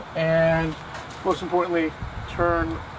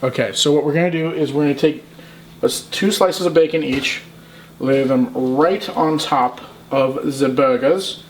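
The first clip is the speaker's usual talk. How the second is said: put-on German accent. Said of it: "I did a German accent there".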